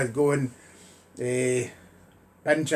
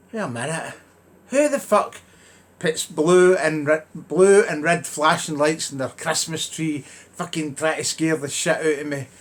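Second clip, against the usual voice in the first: who would do this, outraged; mock outrage at the neighbours' lights; indignant outburst. Indignant discovery of Christmas lights.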